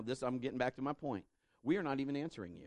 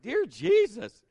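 exasperated exclamation; 10 semitones higher, 9 dB louder, slower than usual. Retold or imitated. Exasperated reaction to friends' story.

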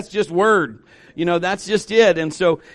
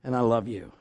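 much lower and softer, gentle divine voice; voice of God; 10 semitones lower, 8 dB quieter than usual. Acted. Preacher voices God telling his people he loves them, low and soft. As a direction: speak as God, low and hushed, full of love. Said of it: "But God says".

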